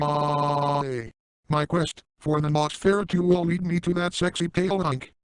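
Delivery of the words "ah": held, level "ah" scream; monotone imitation of a scream; mock scream. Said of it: "run away from the beach screaming".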